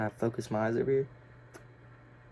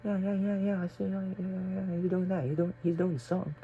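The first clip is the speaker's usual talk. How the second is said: higher, hushed mock gossip; gossiping teachers; 7 semitones higher than usual. Teachers gossiping about him in class, hushed mock gossip. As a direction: nod along like a nosy teacher. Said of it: "They're over there saying some shit like that".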